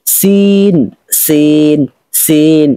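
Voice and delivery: সিন with a strong, thin, sharp s; sharp sin. Shown as a demonstration. Teacher asking students to listen, sharp সিন. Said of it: "একটু মনোযোগ সহকারে শুনুন".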